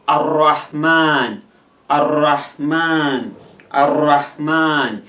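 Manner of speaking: slow "Ar-Rahman" with a held, doubled R; teacher's slow model of "Ar-Rahman" with shadda on R. Shown as a demonstration. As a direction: lean on the R joining "Ar-Rahman". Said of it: "should be pronounced as if it is two".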